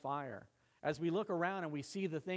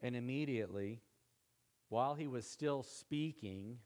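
slower, leaning on "still" with a rising tune; slow, weighty punchline; 2 semitones lower than usual. Shown as a demonstration. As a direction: let the punchline land, drawing out "while he was still speaking". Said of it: "But this is the punchline".

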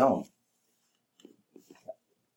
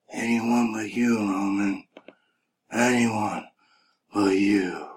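mocking Bray Wyatt; 4 dB quieter, much slower than usual. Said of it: "is over here talking about".

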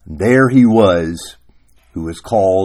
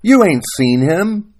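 high, loud acted objection; heated story-character retort; quarrelling protest; 8 semitones higher, 5 dB louder than usual. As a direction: argue back with raised pitch.

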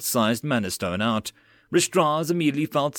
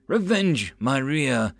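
cursing loudly; 3 semitones higher, slower than usual. Acted. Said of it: "Mills cursed loudly".

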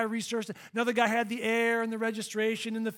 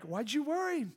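imagined voice of God, higher and softer, leaning on "worry"; God's gentle question; 4 semitones higher, 5 dB quieter than usual. Retold or imitated. Pastor voicing God questioning him after the rescue, mild and high. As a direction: ask "Why'd you worry?" softly, stressing worry. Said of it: "I felt God in heaven like".

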